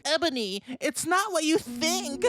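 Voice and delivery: high, pleading mock cry; sad scream. A narrator's reading. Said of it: "Draco screamed sadly".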